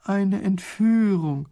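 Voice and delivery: a slow, drawn-out groan of dismay; weary groan. Acted. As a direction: moan it like bad news again. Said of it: "stöhnt Raffini".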